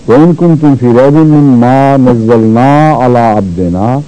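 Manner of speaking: measured recitation with long vowels; Quran recitation. Shown as a demonstration. Teacher reciting before translating, even recitation. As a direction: recite the verse in one even, connected line.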